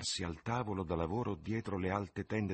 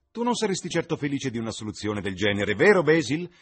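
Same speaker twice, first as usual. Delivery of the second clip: exclaimed laughing; 9 semitones higher, 11 dB louder than usual. A narrator's reading. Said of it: "esclamò Lord Henry ridendo".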